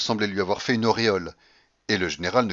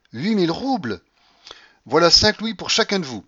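high, loud grandmother voice; exuberant announcement; 9 semitones higher, 8 dB louder than usual. Acted. Grandmother hands louis to her servants, exuberant. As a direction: announce it loudly in triumph.

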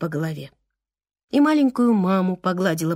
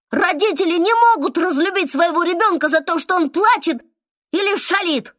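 higher and louder scolding cry; shouting; 8 semitones higher, 4 dB louder than usual. Acted. Little mum shouting at the boy who blames himself, loud scolding cry. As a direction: shout him out of that idea. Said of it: "закричала маленькая мама".

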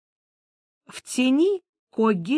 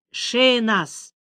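mild exclaim; 3 semitones higher than usual. A narrator's reading. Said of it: "воскликнул Геральт".

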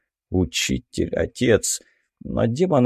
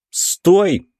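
a sharp, higher, louder shout of stop; 8 semitones higher, 4 dB louder than usual. A narrator's reading. Hero yells to Marishka to stop, a loud shout. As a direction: grab her before she steps into the stone. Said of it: "крикнул я".

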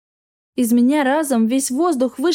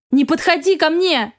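scared shout; 5 semitones higher than usual. A narrator's reading. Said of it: "закричала я".

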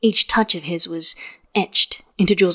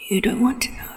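knowing hushed whisper; hint at a secret in a whisper; 3 semitones higher, 5 dB quieter than usual. A narrator's reading. Wen Kexing always whispered.

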